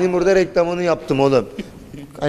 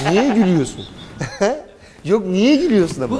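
amused, laughter in the voice; half laughing question; 5 semitones higher than usual. Real, not acted. Asking the boy why he laughs, amused. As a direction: tease while giggling.

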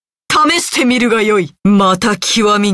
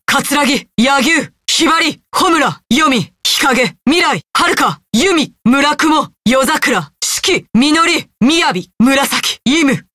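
raised, crisp summons, name by name; formal roll call; 4 semitones higher than usual. Acted. Master summoning the next fighters by name, formal calling voice. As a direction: call each fighter up with authority.

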